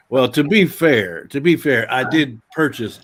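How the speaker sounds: laughing. Real, not acted. Laughing, slow, emphatic.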